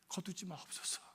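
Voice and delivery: whispered prayer; whispered plea. Acted. Preacher whispering a prayer to God, a hushed plea. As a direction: breathe the plea out like a secret. Quoted prayer sinks to hush.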